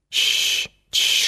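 soft soothing whisper; whispered shushing. A narrator's reading. Anton calms struggling Maya, whispered shush. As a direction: hush her with a whisper. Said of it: "шепнул Антон".

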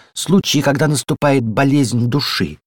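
slow and unsure; a touch of reluctance; hesitant. A narrator's reading. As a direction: pick the words carefully. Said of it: "нерешительно продолжала".

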